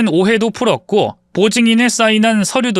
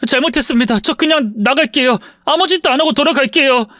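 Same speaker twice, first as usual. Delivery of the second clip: scared pleading; 6 semitones higher than usual. Acted. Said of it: "겁에 질려서".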